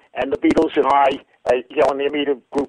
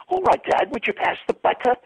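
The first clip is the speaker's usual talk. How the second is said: put-on son repeating in a higher English accent; lightly English, pitched up; 10 semitones higher than usual. Joke son asking again in English accent. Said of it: "you did the accent well".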